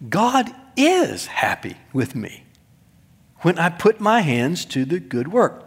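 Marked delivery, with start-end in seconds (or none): 0.1-2.4 a hushed reassuring whisper. Acted. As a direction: breathe it like a secret comfort.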